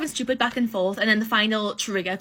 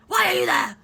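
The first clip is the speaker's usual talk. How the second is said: higher and louder repeat, fed up; exasperated; 7 semitones higher, 5 dB louder than usual. Retold or imitated. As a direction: fire it back in disbelief.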